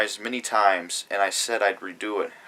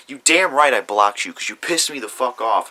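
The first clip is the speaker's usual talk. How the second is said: angry; 2 semitones higher, 6 dB louder than usual. Real, not acted. Ranting at rival who blocked.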